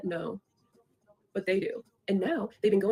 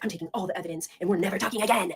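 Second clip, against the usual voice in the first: mock outraged friend; faster than usual. Acting out friend's angry breakup reply.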